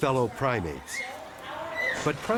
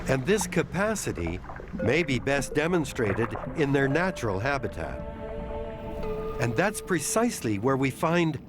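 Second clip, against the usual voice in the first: calm measured documentary narration; nature documentary. A narrator's reading. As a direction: narrate it like a wildlife film. Documentary narration of octopus intelligence.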